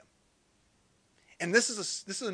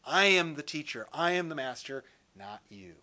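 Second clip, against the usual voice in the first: firm teacher; 2 semitones lower than usual. Retold or imitated.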